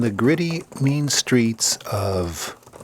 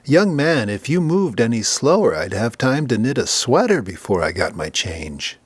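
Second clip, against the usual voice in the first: impatient battle axe. Acted. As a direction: scold the teller like a bossy matron. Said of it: "tapping her fingers impatiently".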